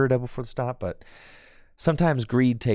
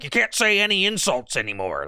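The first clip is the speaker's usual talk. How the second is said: higher-pitched mocking gripe; mock alt-right complainer; 7 semitones higher than usual. Streamer mimicking a chatter as alt-right complainer, mocking. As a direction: imitate an outraged alt-right type whining. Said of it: "sound like a wild alt-right person".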